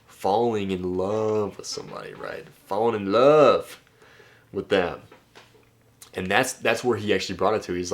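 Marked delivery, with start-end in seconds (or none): 0.1-2.1 "Falling in love with somebody" drawn out slowly, weight on "Falling"; slow emphasis. Shown as a demonstration. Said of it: "what is another term for falling". 2.7-5.0 "Falling in love" slow and louder, peak on "love"; loud slow emphasis. Shown as a demonstration. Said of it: "what is another term for falling".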